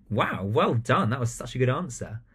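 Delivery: beam at the pupil as you praise; warm praise. Shown as a demonstration. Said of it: "that makes such a difference".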